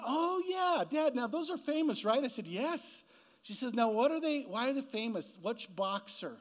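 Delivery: imitating daughter. Dad voices daughter Abby's questions.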